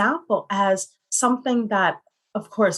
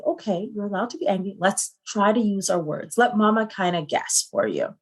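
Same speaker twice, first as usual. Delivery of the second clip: 1 calm mom reassurance. Retold or imitated. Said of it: "I said".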